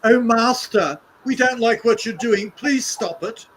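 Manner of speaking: high, loud mock pleading to a master; hammed-up whiny plea; mock begging. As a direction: grovel like a servant begging his master. Mocking pleading protesters.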